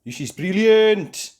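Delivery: high, loud, slow delight; thrilled Molly Mole. Acted. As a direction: revel in the ride. Molly Mole enjoys ride.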